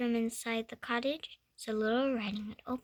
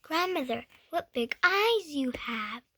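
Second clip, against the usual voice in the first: exclaiming; 4 semitones higher, 4 dB louder than usual. Acted. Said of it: "exclaimed Little Riding Hood".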